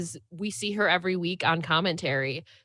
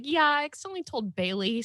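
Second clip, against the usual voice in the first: imitating Renee sheepish; 8 semitones higher than usual. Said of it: "Renee's like".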